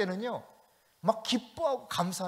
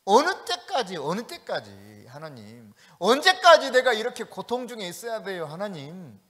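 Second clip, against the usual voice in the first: anguished plea; 3 dB louder than usual. Retold or imitated. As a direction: plead with God, worn down. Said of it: "하박국이 느꼈던 답답함". (고통 중의 선지자가 하나님께 애타게 호소하듯)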